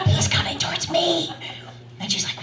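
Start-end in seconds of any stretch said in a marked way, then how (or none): 0.1-1.3 high, squeaky stifled alarm; mock panic. To her sister as the stranger nears, mock panic. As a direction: repeat it much higher, in comic panic. Repeats the panicked aside, higher.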